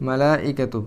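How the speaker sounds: মালাইকাতু read slowly in careful Arabic; Arabic plural. Shown as a demonstration. Teacher reading the spelled-out plural to the class. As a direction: say মালাইকাতু with clear long vowels. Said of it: "বানানটা হচ্ছে অনেকটা এরকম".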